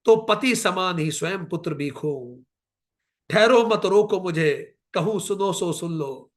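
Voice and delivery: a hint of the grieving queen in poetic recital; recited Kaikeyi lament. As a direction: declaim as Kaikeyi pleading to be heard. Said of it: "Kaikeyi कहती है".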